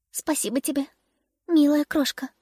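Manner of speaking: weak, chirpy little bird voice; cartoon bird. A narrator's reading. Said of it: "чирикнула больная ласточка".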